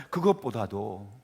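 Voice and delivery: ordinary talk, nothing marked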